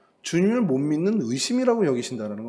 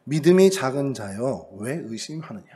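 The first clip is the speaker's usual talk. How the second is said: mild rebuke; 3 semitones lower than usual. Retold or imitated. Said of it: "뭐라고 질책하시냐면".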